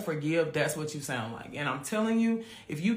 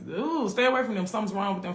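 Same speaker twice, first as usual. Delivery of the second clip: lightly acted wary onlooker, pitched up; mildly mimicked gossiping passer-by; wary bystanders; 4 semitones higher than usual. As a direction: warn people off with a high "ooh". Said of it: "what most people would be like".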